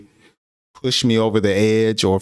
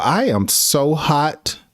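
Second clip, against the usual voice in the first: slow angry emphasis; 5 semitones higher, slower than usual. Shown as a demonstration. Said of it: "express anger is just to say".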